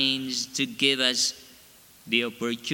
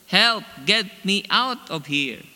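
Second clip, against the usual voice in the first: much higher, much louder cry for help; yelling for help; 7 semitones higher, 6 dB louder than usual. Retold or imitated. Clay trapped in the hot oven, yelling for help. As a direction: shout through the oven door. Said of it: "I yelled".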